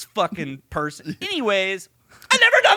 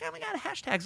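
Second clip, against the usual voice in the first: gushing casting director; 14 semitones higher, 9 dB quieter, faster than usual. Retold or imitated. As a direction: ham up an overexcited talent scout on the phone. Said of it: "She's like".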